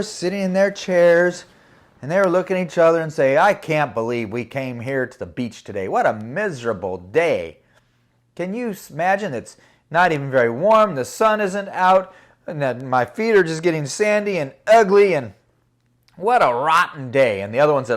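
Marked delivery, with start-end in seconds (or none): 3.4-15.1 mildly hammed-up whine; whining complaint. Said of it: "They were whining". 16.2-17.4 louder mock grumble; mildly hammed-up whine; whining complaint. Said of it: "They were whining".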